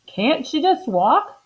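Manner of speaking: high, slow puzzled helper; Amelia puzzled. Acted. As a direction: ask it innocently, drawn out. Amelia questions the doctor.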